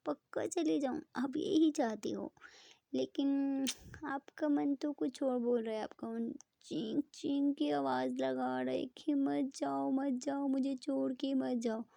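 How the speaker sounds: mild mock confusion to coax a smile; playful teasing. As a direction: lightly tease her, acting helpless. Ishani teases sulking Preeta.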